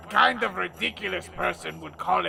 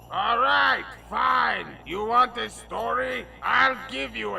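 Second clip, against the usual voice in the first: exasperated; 5 semitones higher than usual. Acted. Grudging concession.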